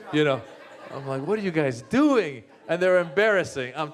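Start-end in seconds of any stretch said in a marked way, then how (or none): 1.3-2.4 higher-pitched, mortified outburst; embarrassed protest. Acted. Kid to parents dressed up for his play, embarrassed protest.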